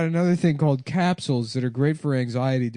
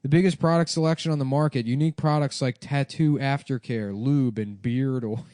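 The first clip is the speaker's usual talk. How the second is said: upbeat podcast ad read. Acted. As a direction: sell it like a sponsor spot. Reads a sponsor ad.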